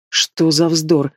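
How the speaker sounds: slow scornful snort; scoffing. Acted. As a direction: drag it out with contempt. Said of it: "фыркнула Марлен".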